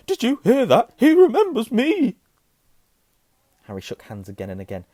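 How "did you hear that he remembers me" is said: very high, loud, drawn-out delight; ecstatic cry. A narrator's reading. Admirer tells everyone around, crying out ecstatically. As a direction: crow it to the whole room. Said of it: "cried Dedalus Diggle, looking around at everyone".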